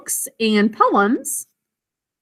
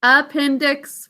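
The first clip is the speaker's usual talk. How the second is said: slow model word; 2 semitones higher, slower than usual. Shown as a demonstration. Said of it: "What's the word, boys and girls?".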